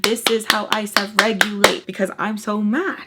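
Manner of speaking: loud, worked-up frustration; retold frustrated outburst. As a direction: vent it loudly. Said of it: "getting frustrated".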